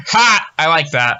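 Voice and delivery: loud high bark of a laugh; amused customer. Retold or imitated. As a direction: laugh it out, pleased.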